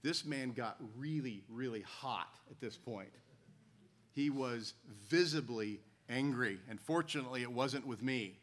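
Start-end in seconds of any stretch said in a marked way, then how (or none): none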